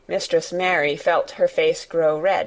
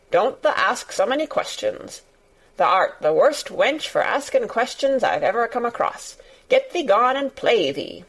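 lightly voiced cross old gardener shooing her off; a hint of gruff annoyance, not shouted; cross dismissal; 3 semitones higher than usual. Gardener sends the questioning girl away, mildly cross. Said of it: "he said sharply".

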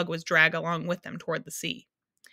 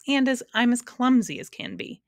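higher, louder exclamation; crying out; 6 semitones higher, 5 dB louder than usual. A narrator's reading. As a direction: cry it out in mild dismay. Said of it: "he cried".

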